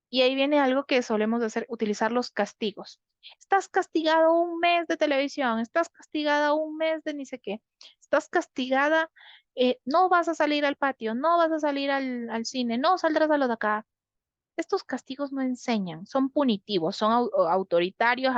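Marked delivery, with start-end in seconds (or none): 3.4-13.9 higher, stern list of punishments; scolding parent. Acted. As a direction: lay down the rules to the child, pitch raised. (regaño de padre, más agudo, imponiendo castigos)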